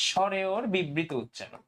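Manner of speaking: বিবৃত drawn out slowly, each syllable clear; slow term. Shown as a demonstration. Teacher naming a new term to students, slow and deliberate. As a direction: spell out বিবৃত উচ্চারণ slowly for the class.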